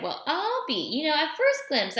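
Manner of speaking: surprised. A narrator's reading. Old man surprised at boy.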